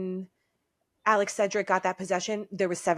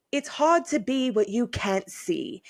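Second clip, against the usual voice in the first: slow commentary in a put-on British accent; British announcer. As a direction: proclaim it slowly like a British sportscaster. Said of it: "But the British announcer goes".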